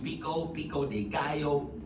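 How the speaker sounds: slow attempted Spanish accent. Shown as a demonstration. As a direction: draw out the dish name with a Spanish accent. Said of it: "trying to do my Spanish accent".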